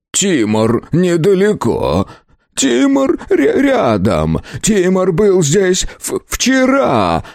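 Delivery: high, halting, stuttering panic; stammering terror. Acted. Terrified shopkeeper stutters about Timur, high and halting. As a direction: trip over the words in fear. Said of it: "Флант начал заикаться и трястись".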